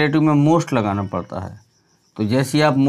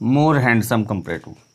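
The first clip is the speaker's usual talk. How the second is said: slowly and deliberately, stressing more; slow teaching emphasis; 3 semitones lower, much slower than usual. Shown as a demonstration. Teacher to students showing the comparative, slow and deliberate. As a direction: lay out more handsome word by word for the class. Teacher spells out the example form.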